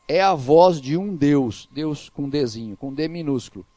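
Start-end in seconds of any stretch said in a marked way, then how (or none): 0.1-1.7 slow, drawn-out proclamation; crowd's acclamation. Retold or imitated. People acclaiming Herod on his throne, slow retold proclamation. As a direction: quote the clamouring crowd with deliberate weight. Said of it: "Olha o que, que o povo clamava".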